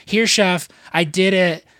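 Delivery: mock eager employee showing off; eager kiss-ass. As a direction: play the teacher's pet, keen to please. Kiss ass eager to please chef.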